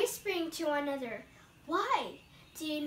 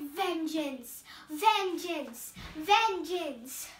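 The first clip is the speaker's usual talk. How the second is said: louder, falling cries of vengeance; a grieving son swearing revenge; cry of vengeance; 5 dB louder, much slower than usual. Acted. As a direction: hurl each word at the sky. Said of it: "And I cried".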